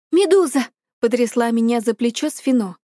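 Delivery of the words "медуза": higher, louder wake-up call; разбуди сестру окликом; urgent call. A narrator's reading. Sister shakes Medusa awake. (громкий оклик)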